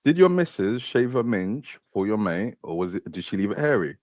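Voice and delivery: slow repeat on request. Real, not acted. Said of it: "say that again".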